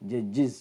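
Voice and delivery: "judges" said as "jud-jiz"; repeated model, "judges" with short i before z; IZ ending. Shown as a demonstration. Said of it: "ജഡ്ജസ് എന്നല്ല". ("judges" അവസാനം "ജിസ്")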